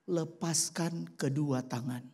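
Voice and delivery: slow, calm voice of God; lightly voiced divine command, slow. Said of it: "suara Tuhan datang gitu di telinganya". (suara Tuhan yang tenang dan pelan)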